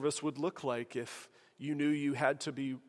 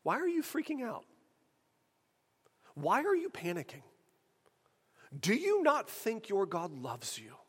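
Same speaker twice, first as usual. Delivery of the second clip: gentle firm rebuke; 4 semitones higher than usual. Acted. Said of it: "It's very gentle, but it is very firm".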